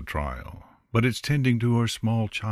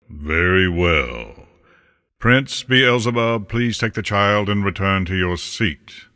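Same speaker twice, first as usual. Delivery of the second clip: Death as judge; 6 dB louder than usual. A narrator's reading. Death ordering Beelzebub back to his seat, loud and commanding. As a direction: pronounce the ruling with full authority.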